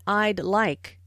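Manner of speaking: "I'd like" with the d sounded before "like"; audible D in I'd. Shown as a demonstration. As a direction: close "I'd" on a d, then "like". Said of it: "Listen for the D in".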